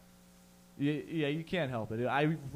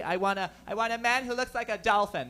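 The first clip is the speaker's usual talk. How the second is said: mock swooning lady; 6 semitones higher than usual. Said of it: "what the magazines say".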